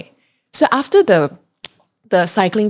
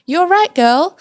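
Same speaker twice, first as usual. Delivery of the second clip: lightly voiced caring companion, higher pitch; fatherly check-in; 10 semitones higher, 3 dB louder than usual. Older companion looking back to check on her, lightly imitated.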